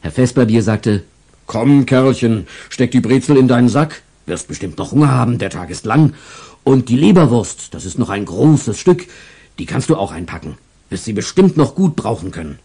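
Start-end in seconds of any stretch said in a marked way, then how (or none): 1.5-12.6 put-on kindly old stall owner.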